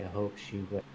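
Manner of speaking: softly mumbled under the breath. Acted. Player character mumbling a hope about Raymond and Sasha. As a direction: mumble it half to yourself. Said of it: "I will mumble and say".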